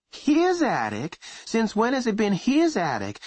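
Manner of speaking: indignant. Acted. Mother indignant.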